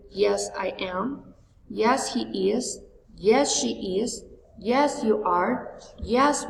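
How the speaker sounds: slow, clear model answers, each one set apart; careful classroom drill pace. Shown as a demonstration. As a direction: read the answers like a pronunciation drill.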